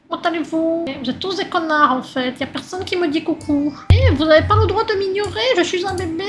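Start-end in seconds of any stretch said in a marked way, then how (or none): 3.9-6.2 laughing while mock-complaining, higher and louder; laughing protest. Baby ignored by passersby complains laughing. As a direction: giggle through the fake outrage.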